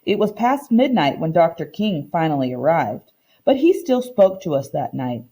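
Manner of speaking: reading a picture book aloud to the class, voicing the characters lightly; story narration. Teacher reading a story to her class, storytime narration. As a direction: read it like storytime for children.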